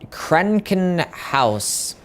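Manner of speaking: "Krankenhaus" drawn out slowly, word part by part; slow, deliberate attempt at German "Krankenhaus"; careful German pronunciation. Shown as a demonstration. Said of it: "Pronounce it perfectly".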